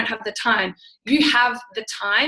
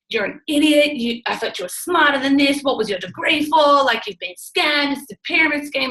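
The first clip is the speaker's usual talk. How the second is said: retold angry husband; 3 semitones higher than usual. Husband scolding his wife for being scammed, mildly mock angry. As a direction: play the scoffing husband, lightly.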